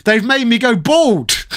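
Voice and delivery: mock gamer rant. Imagining an angry game reviewer's gimmick, mock stressed-out rant. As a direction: complain in mock exasperation about going bald. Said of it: "it would make sense for him to be going".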